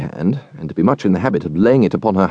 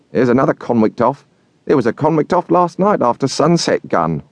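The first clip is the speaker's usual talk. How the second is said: raised, lightly voiced blacksmith explaining; a hint of the kindly blacksmith; Joe's voice; 5 semitones higher than usual. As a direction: lift it up into Joe's homely tone. Joe voiced in story.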